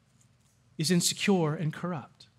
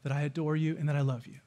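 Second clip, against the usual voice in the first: softer, gentle and sincere; a husband's quiet, loving promise; tender reassurance; 3 semitones lower, 5 dB quieter, faster than usual. Shown as a demonstration. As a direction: lean in and reassure her softly. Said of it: "and then what you say is".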